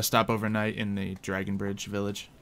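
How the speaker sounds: ordinary delivery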